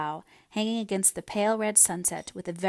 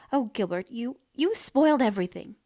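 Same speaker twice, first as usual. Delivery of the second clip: high, louder, stricken; distressed outburst; 4 semitones higher, 4 dB louder than usual. A narrator's reading. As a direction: blame him through rising distress. Anne's distress at proposal.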